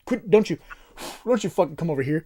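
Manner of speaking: laughing panic at a spider; half-laughing, half-scared yelling; screaming at a spider. Real, not acted.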